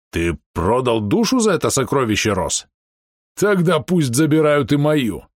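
lightly voiced orc, swinging pitch; worked-up half-orc. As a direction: plead and reproach as a story orc. Narrator voices Bom the half-orc.

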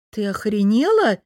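loud, furious outburst. A narrator's reading. Lera snapping at her friend, furious. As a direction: lose it. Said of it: "не выдержала я".

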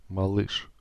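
a soft, tender repeat of the word. Acted. New father repeats word to wife, softly tender. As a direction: say it gently like a discovery. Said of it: "ласково повторил я".

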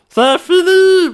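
"C'est fini" pitched high and slow; high dramatic. Shown as a demonstration. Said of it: "c'est tout".

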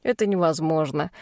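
categorical. Acted. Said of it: "категорично заявил адвокат".

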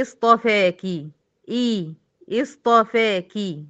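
اصطفاكي begun with i, slowly; starting with kasra. Shown as a demonstration. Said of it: "أقول أنا بالكسر". (ابتداء بهمزة مكسورة)

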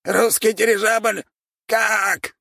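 high squeaky alarmed cry; squeaking rat lord. A narrator's reading. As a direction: squeal it in shock. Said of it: "пропищал владыка".

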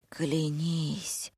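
еле слышный шёпот; прошептать, требуя клятвы; шёпотом. A narrator's reading. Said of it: "еле слышно прошептала Зина".

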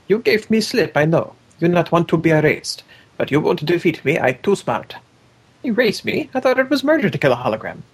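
a touch of a clumsy brute gloating; caveman simpleton voice. Acted. Quoting the brutish character, lightly voiced simpleton. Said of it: "I wanted to do this one".

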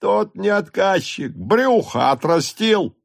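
high, slow mocking echo of «отказчик»; a peasant mocking Дрон's words, high and drawn out. A narrator's reading. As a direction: jeer «отказчик» back up high. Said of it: "Два длинные мужика говорили своё".

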